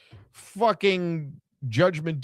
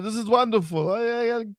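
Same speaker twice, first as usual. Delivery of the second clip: high-pitched mock wrestler promo; hammed-up high, gleeful gloating; Gunther; 9 semitones higher than usual. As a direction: gush in a high put-on voice, pitch climbing as it goes. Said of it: "Gunther did a, a little video".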